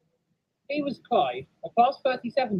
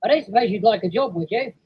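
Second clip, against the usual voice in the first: raised voice making a request; yard foreman; 4 semitones higher, 4 dB louder than usual. Acted. Foreman offers Clyde a job, asking. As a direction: ask a favour, pitched up.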